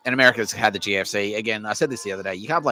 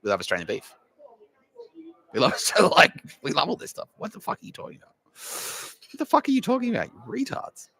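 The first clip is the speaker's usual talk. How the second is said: incredulous and much higher, ending in a squeak; playing an outraged student, voice shooting up; indignant foreign student, pitched way up; mock Chinese student; 4 semitones higher than usual. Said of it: "they're like".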